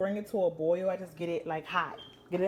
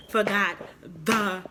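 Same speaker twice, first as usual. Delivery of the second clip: upset whine; 7 dB louder, much slower than usual. Real, not acted. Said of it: "I'm so upset".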